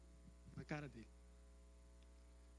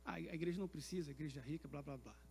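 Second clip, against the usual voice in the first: mildly dismissive, quick and trailing lower; dismissive mimicry; 3 semitones lower, 5 dB quieter, faster than usual. Mimicking those who discouraged him, lightly dismissive. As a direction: mimic naysayers, letting it fade away.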